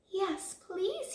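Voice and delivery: small, high, slightly tearful voice; sniffly acceptance. A narrator's reading. Big Bad Wolf accepting tea, sniffly. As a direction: accept meekly after a cry. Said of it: "he sniffed".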